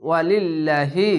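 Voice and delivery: "ওয়ালিল্লাহি" with a light, thin ল্লা; drawn-out "ওয়ালিল্লাহি", thin ল্লা; thin Allah lam. Shown as a demonstration. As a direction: recite it slowly, lam unthickened. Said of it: "তার জন্য পাতলা করা হবে".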